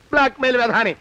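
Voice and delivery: resentful aside, falling away; grumbled insult. Acted. Victim giving in to the blackmailer, grumbled insult. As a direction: grumble the insult under protest.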